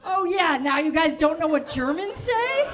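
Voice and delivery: put-on loud, high German accent; indignant camp German, projected loudly; gay German impression. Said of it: "I'll say anything in that voice".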